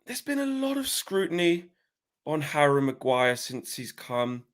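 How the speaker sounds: Simon Stone impression. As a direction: ask it like the BBC reporter. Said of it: "I'll do Simon Stone".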